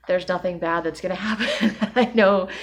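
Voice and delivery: a real laugh breaking through the words; laughing while talking. Real, not acted. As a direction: laugh it off as you say it. Laughing at her own overreaction.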